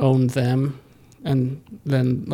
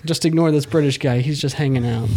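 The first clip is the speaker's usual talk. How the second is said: mock host. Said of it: "that's how it would be".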